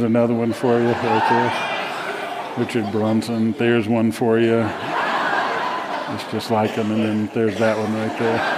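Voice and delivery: chuckling through the words while showing photos; laughing. Real, not acted. Preacher showing the congregation look-alike photos, laughing. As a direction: laugh along as you point out each look-alike.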